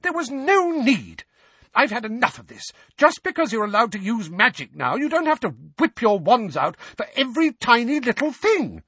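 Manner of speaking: very high, angry screamed telling-off; screamed scolding. A narrator's reading. Mother scolds twins for needless magic, screaming. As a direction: scream at them, fed up. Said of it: "screamed Missus Weasley".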